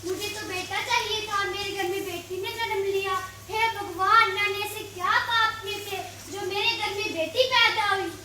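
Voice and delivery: wailing to God in loud despair; loud lament. Acted. Father bewails daughter's birth, loud anguished lament. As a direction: cry out to heaven over bad news.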